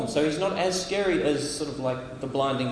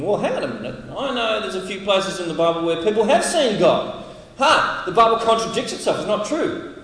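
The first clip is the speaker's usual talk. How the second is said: mock sceptic; 3 semitones higher, 3 dB louder than usual. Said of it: "some of you might be thinking".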